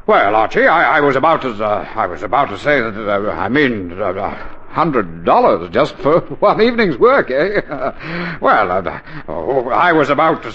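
sheepish backpedal. Acted. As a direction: squirm out of the scolding. Father backpedals after scolding.

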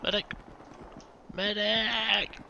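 man down shout. Real, not acted. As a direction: yell for help, high and urgent. Downed, calling for medic.

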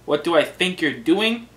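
scolding host, emphatic and indignant; mock exasperation. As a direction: demand an explanation from your sidekick. Host scolds intruding sidekick.

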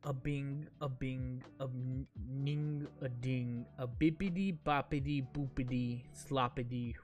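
slow flat monotone reading. Pretend. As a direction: read it like a robot, no melody. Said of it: "read this in a monotone voice".

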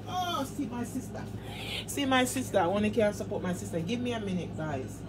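breathy, unvoiced whisper. Real, not acted. Showing followers her sister in the dark, whispered. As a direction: hush it down to a whisper.

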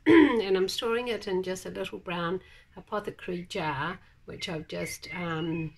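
hoarse croaky voice after clearing throat; croaky, rough throat. Real, not acted. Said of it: "sorry for my croaky voice".

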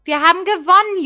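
high, loud cry of victory; jubilant cheer. A narrator's reading. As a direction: scream it with joy. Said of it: "jubelte ich".

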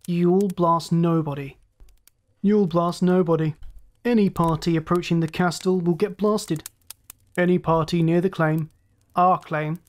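lightly voiced gloating raider; a touch of smug, unhurried menace; cynical villain. Ship's master warns off his rivals, cynical villain.

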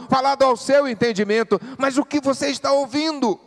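loud, high, urgent pulpit preaching; full-force preaching. Acted. Pastor urges the congregation, loud fervent preaching.

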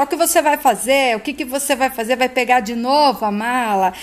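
retold shouting, climbing in pitch toward the end; mild mock shouting. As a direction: act out yelling without full volume. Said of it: "Heloísa começa a gritar".

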